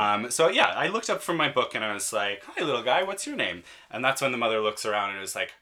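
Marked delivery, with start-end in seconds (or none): 2.4-3.6 put-on high sing-song baby talk; talking to a toddler. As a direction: coo it like to a small child.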